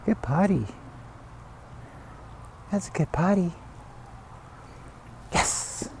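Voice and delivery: high, singsong praise for the dog. Real, not acted. Trainer praising the puppy after he potties, high and sweet. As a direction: gush over the puppy in a high voice.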